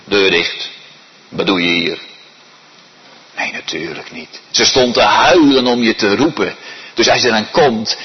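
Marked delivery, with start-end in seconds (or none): 0.0-2.0 lower, dismissive put-on voice; a hint of a cold shut-out; mother turning her child away, low and curt; gruff mother. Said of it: "zou je moeder dan zeggen".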